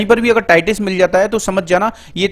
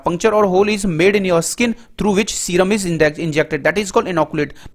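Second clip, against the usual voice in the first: very slow, word by word, as if for notes; dictation; 3 dB quieter, much slower than usual. Shown as a demonstration. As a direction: read the definition slowly so students can write it down. Slow dictated English definition. (धीमे बोलकर लिखवाना)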